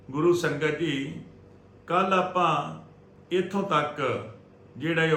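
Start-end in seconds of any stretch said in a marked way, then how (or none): none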